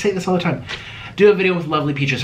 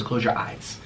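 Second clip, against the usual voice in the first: whisper; 3 semitones lower, 8 dB quieter, slower than usual. Real, not acted. Playing Simon Says with viewers, whispered. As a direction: close your eyes whispered, softer.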